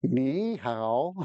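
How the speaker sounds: "Ni hao" as a drawn-out "nee how"; careful Mandarin NI HAO. Shown as a demonstration. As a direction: say "Ni hao" carefully, each syllable separate. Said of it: "help with my pronunciation".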